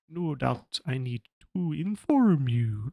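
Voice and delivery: a slow, measured first try; off-voice take. Shown as a demonstration. GM's rejected slow take of Templeton. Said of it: "No, that's different".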